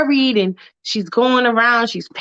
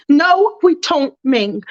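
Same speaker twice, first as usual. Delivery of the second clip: firm mom; 3 semitones higher, 3 dB louder, slower than usual. Acted. Mom refusing to tell father.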